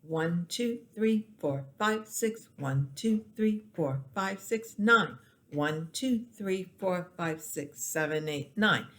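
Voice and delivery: compound-meter count. Shown as a demonstration. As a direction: beat count with accent on each group start. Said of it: "So six".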